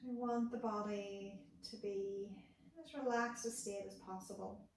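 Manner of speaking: calm instructing voice with long pauses; guided meditation. Acted. Therapist guiding listeners lying on the floor, calm meditation voice. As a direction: guide a body scan, unhurried, pausing between steps. Leads a guided body scan.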